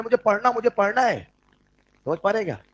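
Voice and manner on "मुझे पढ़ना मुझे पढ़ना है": put-on a higher, pleading child voice; a hint of a whiny child; pleading catalyst. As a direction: beg like a kid who wants to study. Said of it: "catalyst कहना".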